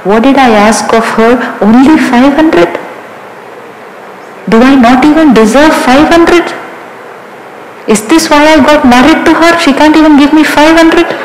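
a husband's mock-wounded grumble, picking up pace; indignant self-pity. Hurt husband rants about wife.

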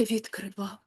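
a pupil half-mumbling "відкривав" to the teacher; muttered claim. Retold or imitated. Pupil mumbles "відкривав" defensively to the vocal teacher. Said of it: "клянеться людина тобі, божиться, каже".

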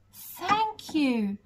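lightly voiced grateful giraffe. Giraffe thanking the giant, lightly voiced and grateful. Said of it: "said the giraffe".

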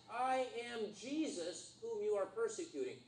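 lightly voiced Jesus, measured and grand. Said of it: "And the voice said".

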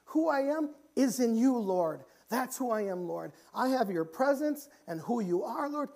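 impassioned acted cry; crying out to God. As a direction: pray it out as David, pitched high. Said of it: "David's cry out saying".

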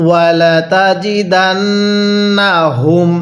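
slow, melodic chanted recitation; Quran recitation. Shown as a demonstration. Teacher leads students in reciting along. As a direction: chant it slowly so students can follow. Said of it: "তাহলে আমার সাথে পড়ুন".

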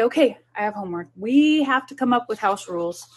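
a parent enthusing over house rules; upbeat parent to kids. Shown as a demonstration. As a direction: sell the homework game to the kids. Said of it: "So sit down and say".

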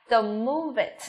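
measured command falling on "move it"; falling intonation. Shown as a demonstration. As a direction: let "move it" sink at the end. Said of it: "hai câu này đều xuống giọng hết".

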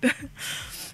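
airless silent cackle; a real laugh that barely makes a sound; breathless cackle. Real, not acted. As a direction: cackle with almost no voice. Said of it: "They just have me cackling".

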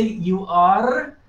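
"are" stretched slowly with a held R; strong R. Shown as a demonstration. Teacher explains a hard sound to learners, "are" with a long R. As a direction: lean on the final R of "are". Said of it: "problems pronouncing the R".

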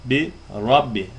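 Rabbi with a thick, doubled b and a heavy ra; slow Quranic recitation of Bi Rabbi; recitation demo. Shown as a demonstration. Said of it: "Hemen ra üzerine dururuz".

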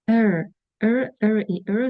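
"Er, er" as a stressed, isolated vowel sound; teacher sounding out "er" for learners; er sound demonstration. Shown as a demonstration. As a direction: model the "er" vowel on its own, repeated. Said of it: "зазвичай це er".

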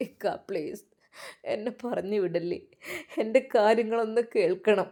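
softly sobbing at the man's feet; sobbing plea. Acted. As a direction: plead at his feet, voice breaking. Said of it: "വിതുമ്പിക്കൊണ്ട്".

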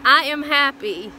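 stiff robot voice, slow; flat robotic monotone. Real, not acted. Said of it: "You sound like a robot".

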